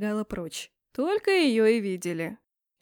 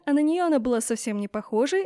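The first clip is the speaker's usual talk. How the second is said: ordinary delivery, nothing marked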